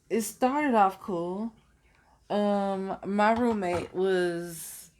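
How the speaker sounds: breathy hushed aside, barely voiced; whisper. Real, not acted. Telling the listener her story, whispered aside. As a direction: drop to a sly whisper on this line. No one names it, sudden whisper.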